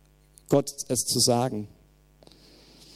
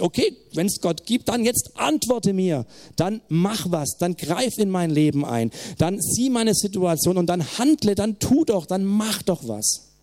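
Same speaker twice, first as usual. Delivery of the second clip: pleading demand; 5 semitones higher than usual. Retold or imitated. Bruce pleading with God.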